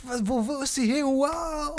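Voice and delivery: high, startled "where did she go"; surprised high voice. Acted. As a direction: squeak it out in surprise.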